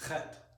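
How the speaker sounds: "Chet" started with a rasp caught in the throat; throaty ch sound. Shown as a demonstration. Teacher showing the sound we lack in English, throaty. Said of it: "You got something caught in your throat, that sort of sound".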